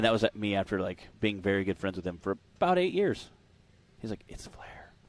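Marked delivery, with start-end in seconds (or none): 4.3-4.9 soft, hushed whisper. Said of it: "Why are we whispering?".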